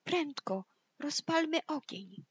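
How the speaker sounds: high, urgent piggy call. Acted. Wisest pig tells brothers to light fire, urgent high call. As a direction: call out quickly to rally the others. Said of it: "i zawołała".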